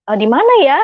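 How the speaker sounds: mildly lost, asking for directions; puzzled asking. Retold or imitated. Mother asking where adult worship is held, mildly puzzled. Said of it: "Saya benar-benar memang nggak tahu".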